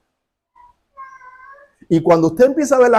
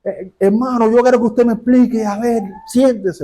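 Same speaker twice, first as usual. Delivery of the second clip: higher-pitched mock indignation; angry demand; 4 semitones higher than usual. Angry young woman confronting the preacher after his talk, indignant. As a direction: imitate someone demanding an explanation. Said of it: "el enojo que traía así".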